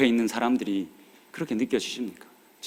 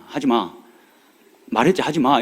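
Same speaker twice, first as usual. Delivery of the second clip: firm blunt command, no softness; stern father. Retold or imitated. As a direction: snap it like a strict dad to his girl. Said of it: "이렇게 얘기를 합니다".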